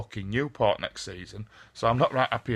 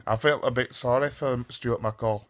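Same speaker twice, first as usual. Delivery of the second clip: a rough stab at a Scottish accent. Shown as a demonstration. Fan mimicking the Scottish manager in a half-hearted Scottish accent. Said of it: "bit of a shit Scottish accent there".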